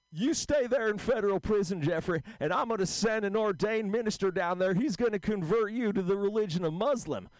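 lightly voiced old-timer, calming him; George Burns impression. The speaker calming Jeffrey down, as a light old George Burns. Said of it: "sounds like George Burns".

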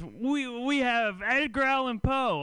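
mock proud claim. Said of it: "his biggest claim to fame".

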